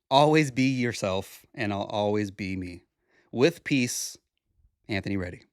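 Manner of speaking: a heartfelt open letter read gently and earnestly; sincere letter reading. Acted. Podcaster reads his letter to the bees, gently sincere.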